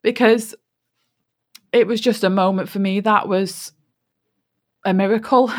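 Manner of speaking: real emotion welling up as she recalls it; getting emotional. Real, not acted. Telling viewers about her miracle, voice rising with emotion. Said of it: "I'm getting emotional now".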